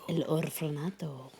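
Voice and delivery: soft unvoiced whisper of the title. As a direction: breathe the title out. Echoing whispered tagline.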